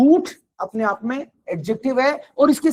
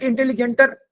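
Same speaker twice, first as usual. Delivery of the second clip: wrong form. Shown as a demonstration. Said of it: "इंटेलिजेंटर नहीं बोलते".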